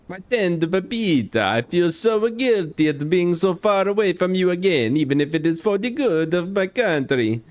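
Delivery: put-on hammy high-pitched Italian accent. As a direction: lovesick letter in a hammed-up Italian accent. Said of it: "tell me not to do the Italian accent".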